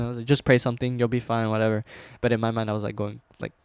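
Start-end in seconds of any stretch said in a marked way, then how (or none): 0.2-1.8 retold casual reassurance; nonchalant. Telling scared family to pray and sleep, nonchalant. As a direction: brush it off coolly, acting tough. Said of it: "I was talking like that nonchalant".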